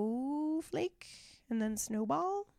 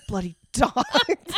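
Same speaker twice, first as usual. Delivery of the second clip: drawn out slow and louder, half laughing; milk the line like a melodrama villain; slow mock snarl reading the book's line; hammed-up snarl; 3 semitones higher, 6 dB louder, much slower than usual.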